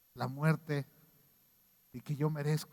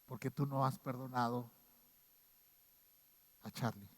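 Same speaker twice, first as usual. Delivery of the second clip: quiet grave verdict; 3 semitones lower, 8 dB quieter than usual. Retold or imitated. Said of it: "Diría".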